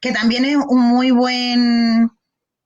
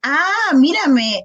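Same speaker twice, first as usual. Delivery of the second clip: coaxing parent model; 2 semitones higher, much slower than usual. Shown as a demonstration. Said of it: "Hijo, mírame".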